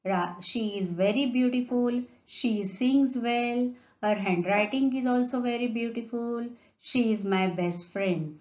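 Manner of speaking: reading example sentences slowly. Shown as a demonstration. Teacher reading example sentences aloud to class, slow and clear.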